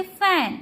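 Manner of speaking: फैन starting on फ. Shown as a demonstration. Teacher showing learners the F sound, फैन with फ. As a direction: open फैन with a clear फ. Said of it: "फ के रूप में किया जाता है".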